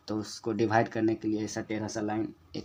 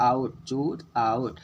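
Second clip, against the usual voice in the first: आउट drawn out slowly after choose; slow scansion, lingering on आउट; lengthened stressed word; much slower than usual. Shown as a demonstration. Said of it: "यहाँ थोड़ा देर के लिए पढ़े". (आउट पर थोड़ी देर रुककर, धीरे)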